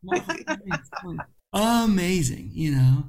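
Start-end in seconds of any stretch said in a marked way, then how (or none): 0.0-1.2 high, slow, savoring the name; drawn-out relish. Pretend. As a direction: stretch out the name lovingly.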